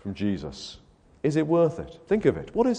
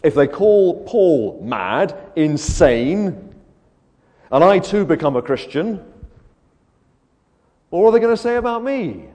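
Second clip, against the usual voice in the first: rising, louder anxious thought, slow at first; worried inner voice; 4 semitones higher, 6 dB louder, slower than usual. Retold or imitated. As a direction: fret over being mocked. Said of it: "Agrippa thought to himself".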